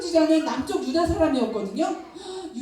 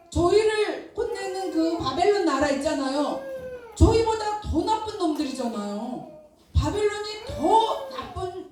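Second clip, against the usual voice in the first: arguing with God; 4 semitones higher than usual. Acted. Habakkuk argues with God about wicked Babylon, indignant. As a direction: protest the unfairness, pleading and indignant. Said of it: "이렇게 하나님께 따졌어요".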